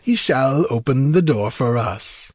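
exultant sorcerer, swooping pitch; gleeful. A narrator's reading. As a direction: declare it with wicked relish. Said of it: "laughed Peleus".

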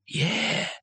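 high, rising, wary reply; cautious. A narrator's reading. Leader answering a voice from the branches, cautious. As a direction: answer warily, pitch lifting at the end. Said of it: "said the leader cautiously".

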